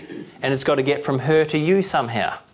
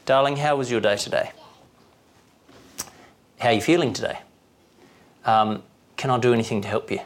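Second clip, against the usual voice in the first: gentle caring questions; faster than usual. Shown as a demonstration. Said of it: "asking your wife a leading question".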